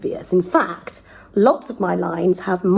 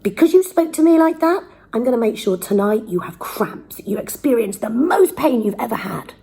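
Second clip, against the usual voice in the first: Prospero threatening; 3 semitones higher than usual. Retold or imitated. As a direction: threaten the servant, then settle. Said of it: "Prospero then says to Caliban".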